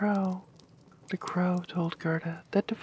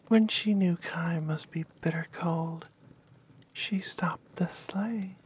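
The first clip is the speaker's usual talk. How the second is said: whispered story. Acted.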